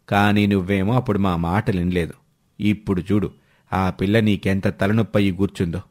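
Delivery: a hint of a scolding uncle, low; nagging uncle. Voices the nagging elder uncle.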